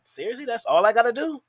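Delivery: lightly voiced surprised girl; mock amazed girl. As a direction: play a girl who can't believe it's that easy. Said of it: "the bitch will be like".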